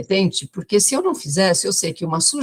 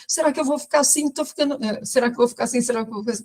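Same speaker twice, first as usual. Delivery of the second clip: higher, quick anxious question repeated; imitating the patient's fretful triple question; worried repetition; 4 semitones higher, much faster than usual. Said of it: "Tudo que ela falava eram três vezes". (pergunta aflita repetida, imitando a paciente)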